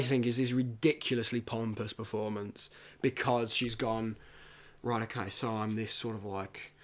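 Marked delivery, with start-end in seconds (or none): 4.8-6.7 put-on Cate Blanchett accent. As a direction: murmur it like a pompous composer. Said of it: "Don't do the accent".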